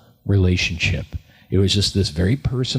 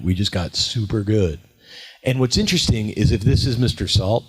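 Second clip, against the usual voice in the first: ordinary talk, nothing marked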